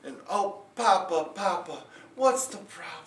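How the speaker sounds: high, fretful, babbling worry; a father wringing his hands over trouble; panicked father. Acted. Panicked father tells daughter.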